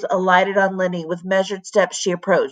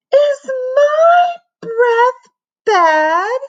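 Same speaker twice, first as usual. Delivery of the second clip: high, loud, slow furious demand; outraged crying shout; 6 dB louder, much slower than usual. A narrator's reading. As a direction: demand it at the top of your voice. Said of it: "she demanded".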